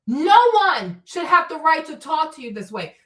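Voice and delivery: ordinary delivery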